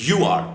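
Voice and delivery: "you are" as one quick word, you're; short form of "you are". Shown as a demonstration. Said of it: "উচ্চারণটা হচ্ছে".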